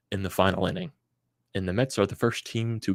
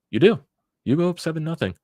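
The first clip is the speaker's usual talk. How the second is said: indignant rant; 9 semitones higher, 5 dB louder than usual. Real, not acted. Fan ranting about blown lead.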